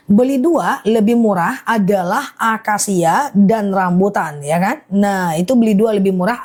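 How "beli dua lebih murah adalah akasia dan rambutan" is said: measured, separated phrases for clarity; slow careful repeat. Real, not acted. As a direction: lay the offer out piece by piece. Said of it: "Aku ulang ya". (diulang pelan-pelan, kata demi kata)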